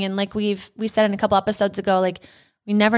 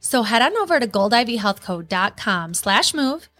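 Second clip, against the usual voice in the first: ad read. Acted. Ad read over music.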